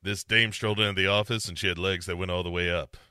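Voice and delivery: quick hardboiled 1950s PI narration; noir detective. Pretend. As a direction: tell it like a fast-talking gumshoe. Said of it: "sound like a nineteen fifties P I".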